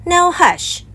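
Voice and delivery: Mama hushing. A narrator's reading. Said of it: "said Mama".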